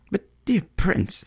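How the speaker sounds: high, slow bird voice protesting; a small bird pleading with the prince; high tender little bird; swallow. Acted.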